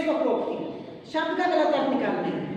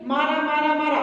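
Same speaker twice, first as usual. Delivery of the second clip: even, run-together chant; nonstop repetition. Shown as a demonstration. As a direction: loop the word on one level note. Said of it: "बाद में वो आवाज किसकी बन जाएगी".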